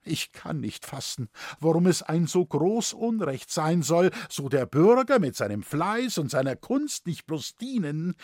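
plain reading voice

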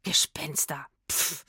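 low-key dismissive grumble; grumbling. A narrator's reading. Grinning trombonist scoffs at the talk of ghosts, grumbling. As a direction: mumble it and puff it away. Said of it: "brummte er und grinste".

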